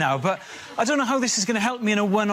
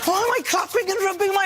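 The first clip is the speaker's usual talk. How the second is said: bewildered self; 12 semitones higher than usual. Retold or imitated. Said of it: "I'm like".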